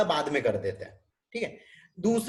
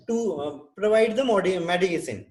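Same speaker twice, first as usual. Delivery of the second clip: slow dictation; much slower than usual. Shown as a demonstration. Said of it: "teacher dictating care plan".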